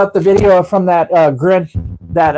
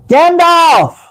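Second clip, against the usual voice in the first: calling out; 11 semitones higher, 3 dB louder than usual. Real, not acted. Calling out a name on stream.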